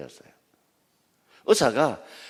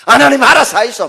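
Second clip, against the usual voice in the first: loud, high Gyeongsang "알아서 하이소" with a falling end; 경상도 사투리로 "알아서 하이소"라고 던지듯; Gyeongsang dialect resignation; 11 semitones higher, 13 dB louder than usual. Retold or imitated. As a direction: toss the problem to God in dialect. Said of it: "힘 빠지면 뭡니까".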